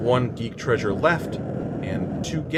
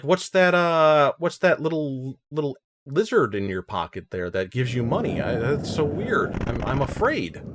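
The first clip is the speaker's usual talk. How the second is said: a half-hearted Australian voice for a worried local; mock Australian accent; 5 semitones higher than usual. Gamer imitating a nervous Australian, in a mock Australian accent. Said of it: "they're like".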